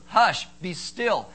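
slow, loud, deliberate command; commanding hush. Acted. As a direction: halt everything with a measured order. God commanding stillness, acted out.

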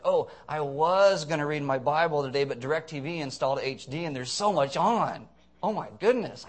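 mildly mocking excuse-maker; sarcastic. Preacher mimicking Christians with excuses, sarcastic. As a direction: lay on a touch of mock amazement. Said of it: "it's me being sarcastic now".

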